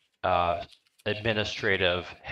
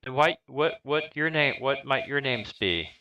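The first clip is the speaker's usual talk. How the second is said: prim headmistress; 5 semitones higher than usual. Acted. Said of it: "she moves one half step onto the porch and says".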